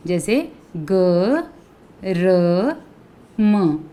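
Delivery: slow, separated letters ग, र, म; letters said apart, very slowly; sounding out letters. Shown as a demonstration. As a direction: spell out ग… र… म one at a time. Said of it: "अब आप देखिए".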